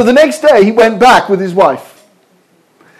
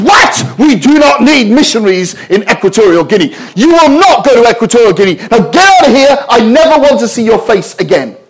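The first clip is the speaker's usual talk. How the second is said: obstreperous official; 5 semitones higher than usual. Retold or imitated. Rude embassy official throws missionary out, angry raised voice. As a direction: bark at him like a rude official. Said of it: "this very obstreperous woman".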